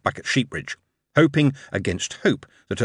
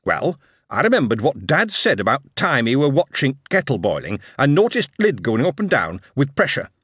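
put-on earnest young lad; 2 semitones higher than usual. Dick explaining the kettle idea.

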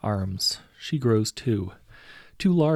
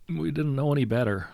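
higher, pleading crewman; a higher voice making excuses to the captain; lightly acted plea, pitched up; crewman excusing himself; 6 semitones higher than usual. A narrator's reading. Crewman's frightened excuse in story.

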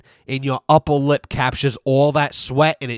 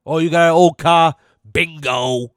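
louder, excited bargain-hunter voice; eager picker; 3 semitones higher, 4 dB louder than usual. Pretend. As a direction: pounce on the find like a treasure hunter. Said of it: "That's my dream".

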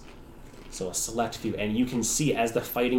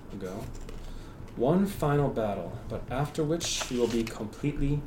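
tiefling voice. Acted. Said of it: "The tiefling says".

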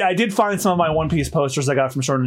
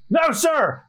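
crew in chorus; 10 semitones higher than usual. Acted. Crew answers Buggy's rallying call.

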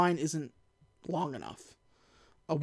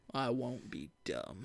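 sulky low mutter; 9 semitones lower, 14 dB quieter, slower than usual. Retold or imitated. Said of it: "The Rock is like".

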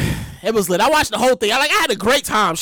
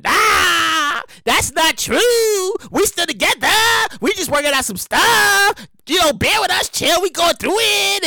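1 mock couple denial; 5 semitones higher, slower than usual. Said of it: "they was like".

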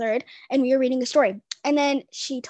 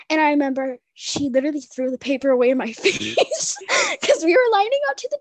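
crying; 3 semitones higher, 3 dB louder than usual. Real, not acted. Crying while telling sad memory.

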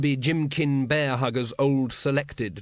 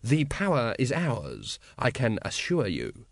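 slow, smooth assurance; measured and soothing, in command; slower than usual. Acted. Supreme Grand Master assures his brothers, smoothly. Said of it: "said the Supreme Grand Master smoothly".

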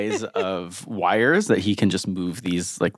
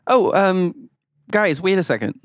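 higher, hesitant interjection; Serica calling for attention; 8 semitones higher than usual. Acted. Serica interrupts the group from behind, higher hesitant call. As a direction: get the group to wait, pitched up. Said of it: "hear a voice behind you".

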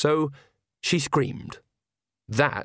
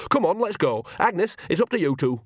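urgent call; 7 semitones higher than usual. A narrator's reading. Nanny dragging Magrat away, calling out.

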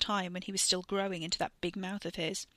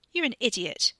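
snapping; 4 semitones higher, 5 dB louder than usual. Acted. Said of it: "Catherine snapped at her brother".

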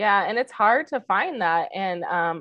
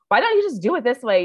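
irritated snap; 4 semitones higher, 4 dB louder than usual. Retold or imitated. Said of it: "I get irritated and I go".

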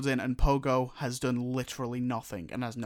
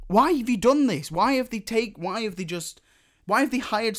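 exasperated complaint; 6 semitones higher than usual. Real, not acted. Speaker berating the show's makers over music, exasperated. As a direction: demand an explanation, indignant.

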